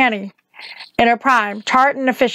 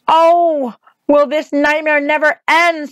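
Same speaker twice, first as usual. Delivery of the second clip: screaming; 5 semitones higher, slower than usual. Acted. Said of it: "screamed Dorothy".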